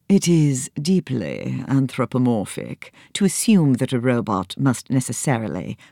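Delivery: a hint of Oxford English accent; robot speaking in a lightly modulated Oxford English accent. Robot lecturing in understated Oxford English accent. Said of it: "Oxford English accent".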